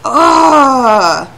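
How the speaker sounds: loud, slow, high-pitched angry outburst; really mad. Real, not acted. Gamer fuming at the jerk, really mad. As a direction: lean hard on each angry word, ending in a loud groan. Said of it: "I'm so mad. I am so angry".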